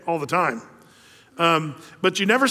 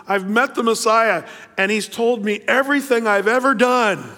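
a bit louder, eager announcement; excited news; 5 semitones higher, 4 dB louder than usual. Retold or imitated. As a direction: burst out with the news. Woman runs into town telling everyone.

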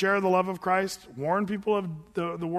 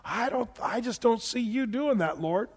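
lightly voiced, gently protesting Abraham; Abraham pleading; 3 semitones higher than usual. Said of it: "Abraham already knows the Lord enough to say".

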